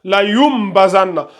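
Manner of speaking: "La yum bazanna" with m before b; qalb pronunciation. Shown as a demonstration. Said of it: "Donc c'est ça". (« La yum bazanna » avec un m avant le b)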